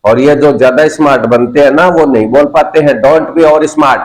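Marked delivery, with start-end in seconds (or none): 3.0-4.0 slow scolding. Shown as a demonstration. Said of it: "teacher scolds slowly".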